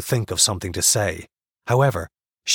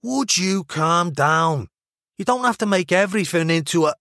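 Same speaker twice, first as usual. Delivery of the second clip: exasperated higher-pitched Mancunian; Mancunian accent; 8 semitones higher than usual. A narrator's reading. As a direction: tell someone off in a Manchester accent. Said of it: "the over-enunciated vowels she was already learning".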